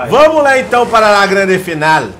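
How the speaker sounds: high, loud final announcement; loud announcer call; hyped announcement. Real, not acted. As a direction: build the big final.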